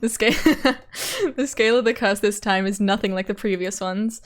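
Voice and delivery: horrible Oishi voice. Acted. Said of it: "my strange amalgamation of American accents".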